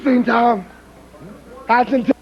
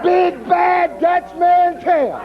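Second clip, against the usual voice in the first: slow mocking shout; 2 semitones higher, slower than usual. Wrestler boasting about his rival.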